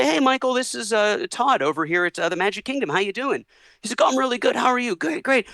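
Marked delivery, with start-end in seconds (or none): 0.0-3.4 chirpy phone greeting. Retold or imitated. Disney caller greeting Michael. 4.0-5.5 chirpy pleasantries. Retold or imitated. Phone pleasantries between Michael and Disney.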